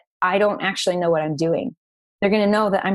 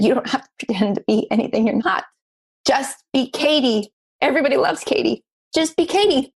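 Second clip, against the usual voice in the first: reassuring husband; 5 semitones higher than usual. Retold or imitated. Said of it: "he said something so powerful".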